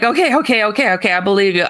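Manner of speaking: rapid, repeated retold placating; hurried acted-out surrender; hasty conceding. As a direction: give in quickly to make it stop. Conceding hastily to the alien.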